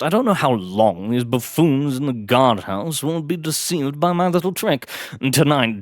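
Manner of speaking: urgent plotting gentleman adventurer; exuberant aristocrat. Acted. Blackwood briefing his butler on the plan, exuberant aristocrat. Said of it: "exuberant, aristocratic tones".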